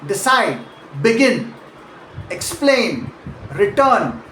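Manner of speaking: de-CIDE, be-GIN, ex-PLAIN, re-TURN; decide, begin, explain, return as separate words, each stressed late; stress on second syllable. Shown as a demonstration. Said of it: "usually stress the second syllable".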